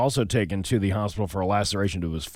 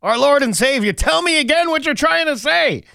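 building higher and louder into a desperate plea; Peter pleading; 6 dB louder than usual. Acted. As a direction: beg harder with every phrase. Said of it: "and says".

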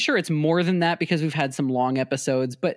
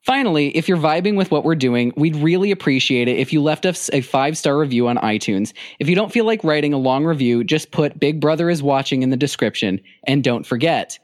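louder announcer-style outro; podcast outro read; 5 dB louder than usual. Acted.

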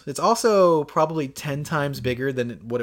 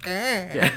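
imitated cat reaction. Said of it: "it did react like".

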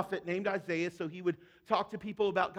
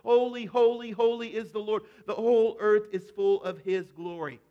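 echoing call; 6 dB louder than usual. Retold or imitated. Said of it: "echo it back and forth".

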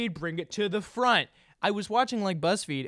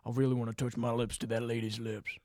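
mock lovestruck guy; 7 semitones lower, 8 dB quieter than usual. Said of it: "you're like".

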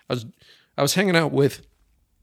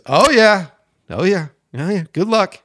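higher, louder teasing oh yeah; mock gloating; 7 semitones higher, 8 dB louder than usual. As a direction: taunt him like you know he'll fail. Clerk gloating, retold.

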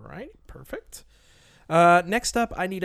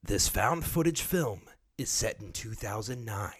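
lightly voiced trailer narrator, with laughs; movie trailer voice. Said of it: "I'm gonna do it like movie trailer voice".

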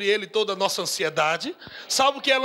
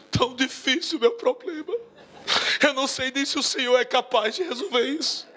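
mock crying. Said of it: "Algumas pessoas estão chorando".

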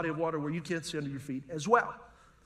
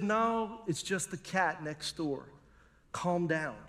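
lower, softer, unhurried voice; mildly reassuring; 3 semitones lower, 5 dB quieter, slower than usual. Acted. Logical brain answers the fear of a break-in, calming. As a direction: settle it down quietly, a touch soothing.

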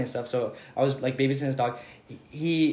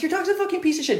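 retold insult, higher. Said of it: "I was like".

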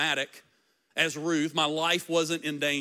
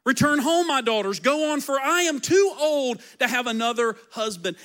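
Naomi urging; 2 semitones higher than usual. Acted. Naomi voiced, pushing them away.

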